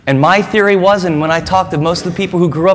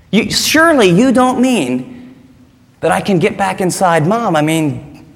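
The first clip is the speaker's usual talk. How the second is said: puzzled Nicodemus; 3 semitones higher than usual. Pretend. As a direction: play the baffled scholar questioning Jesus. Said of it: "Nicodemus asks".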